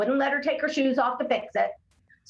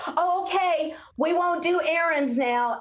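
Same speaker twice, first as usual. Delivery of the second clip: higher, sing-song giving-in parent; mock parent; 6 semitones higher than usual. Parent giving in to a child, mock cheerful higher voice. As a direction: play the parent caving in lightly. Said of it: "where you can say".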